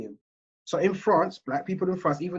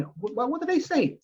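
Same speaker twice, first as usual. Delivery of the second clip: higher, stammering mock superior; mock stammering boss; 10 semitones higher, 3 dB quieter than usual. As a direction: play a flustered boss, stumbling over the first word.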